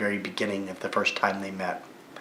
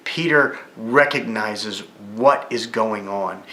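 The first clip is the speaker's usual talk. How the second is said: normal talking voice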